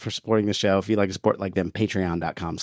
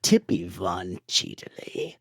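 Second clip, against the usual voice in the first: very slow sinister Emperor; 2 semitones lower, 3 dB quieter, much slower than usual. Acted. Cohost reading patron names as the Emperor. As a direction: drawl the name with dark relish. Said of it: "Let's do it in Emperor voice".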